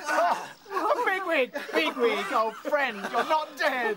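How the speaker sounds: slow, laughing with joy; relieved laughing. Acted. Relief friend alive.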